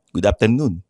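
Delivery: put-on posh English greeting; mock posh English. Imitating the coworker's new greeting, put-on posh English. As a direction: fake social accent. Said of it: "ngayon, ano na".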